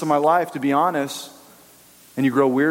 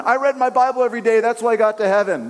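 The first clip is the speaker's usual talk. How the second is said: boastful believer; 5 semitones higher, faster than usual. Retold or imitated. Mocking a boaster in heaven.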